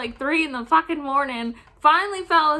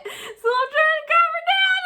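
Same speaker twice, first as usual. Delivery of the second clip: laughing; 14 semitones higher than usual. Real, not acted. Cracking up mid-story.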